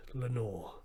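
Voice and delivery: distant echo of Lenore; echo murmuring back. A narrator's reading. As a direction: let it come back like an echo. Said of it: "an echo murmured back the word".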